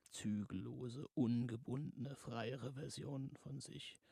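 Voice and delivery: a lightly voiced creaking thing, slow and soft. The creature tempts Samantha with a lightly creaking voice. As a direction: creak the words out softly. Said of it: "knarzte es".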